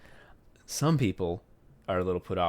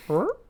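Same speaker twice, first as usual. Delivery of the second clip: cat wake-up chirp; 12 semitones higher, 3 dB louder than usual. Retold or imitated. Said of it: "they make the activation sound".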